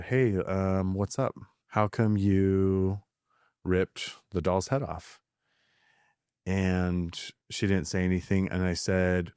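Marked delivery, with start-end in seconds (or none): 0.0-5.2 gentle, slow questioning of his daughter; calm voice. Retold or imitated. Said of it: "in a calm voice".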